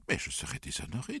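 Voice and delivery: high-pitched tearful wail; in tears. A narrator's reading. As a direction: plead through acted tears. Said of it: "dit-elle en larmes".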